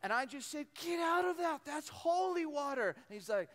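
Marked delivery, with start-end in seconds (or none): 0.7-2.9 high, loud outraged order; mock scolding. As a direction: tell a kid off in hammed-up outrage. Retold scolding of the kid.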